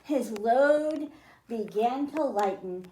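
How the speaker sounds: lilting read-aloud, rhymes and all; storybook reading. A narrator's reading. Teacher reading a rhyming picture book to children, lilting read-aloud. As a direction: read it to a class of kids, rhyming.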